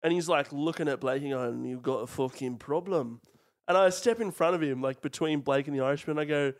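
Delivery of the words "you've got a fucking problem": slow, lightly imitated Irish threat; a touch of Irish menace, slow; Irish accent. Short Irishman squaring up to Blake, light Irish accent. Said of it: "five foot tall Irishman".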